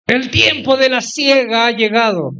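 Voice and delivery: mock preacher shout. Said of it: "comenzaron a gritar".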